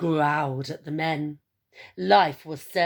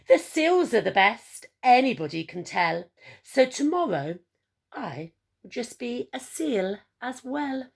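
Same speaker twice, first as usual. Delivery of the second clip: bright, louder emu voice, giddy with glee; a chuffed emu announcing his plan; laughing Edward; 5 semitones higher, 4 dB louder than usual. Acted. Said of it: "he laughed as he said".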